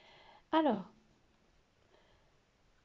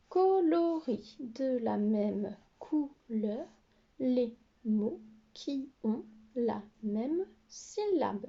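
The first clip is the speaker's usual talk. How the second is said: slow dictation-style instruction; slower than usual. Shown as a demonstration. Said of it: "teacher reading instruction slowly".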